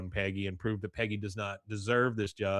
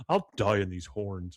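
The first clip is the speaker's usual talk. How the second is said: slightly lowered voice, lightly in character; stubborn Dooley; 3 semitones lower than usual. Retold or imitated. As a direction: lightly imitate a stubborn vow. Repeats Dooley's defiant line.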